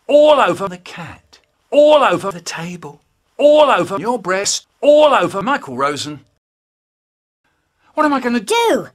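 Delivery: loud, high panicked shouting; mounting yell. Acted. Yells in panic as it squishes everywhere, loud. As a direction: yell it as the mess spreads.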